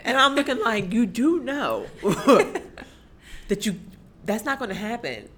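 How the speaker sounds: loud, high, through laughter; amused, incredulous reaction, pitched high; laughing disbelief. Real, not acted. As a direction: burst out laughing mid-quote. Laughing through her retold reaction.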